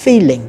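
feeling with the L linked into the following vowel; linked consonant. Shown as a demonstration. Teacher modelling the linked L in feeling. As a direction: glide the L straight into the next vowel in feeling. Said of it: "nối qua cái âm Y".

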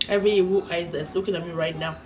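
quick grace said half to yourself; mock-solemn prayer. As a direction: pray over your food in a low, subdued voice.

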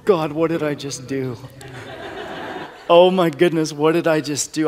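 laughing at his own rash promise; laughing disbelief. Real, not acted. A broke student laughing in disbelief at his promise to a stranger. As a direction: chuckle through it, half panicked.

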